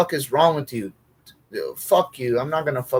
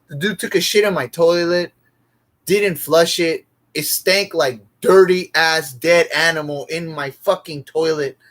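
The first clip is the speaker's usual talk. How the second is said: angry rant; 4 semitones higher, 4 dB louder than usual. Real, not acted. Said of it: "just thinking about it makes me angry".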